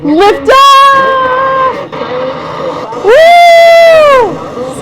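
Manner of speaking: overloaded, distorted mic; clipping mic from shouting. Real, not acted. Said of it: "screaming into the mic".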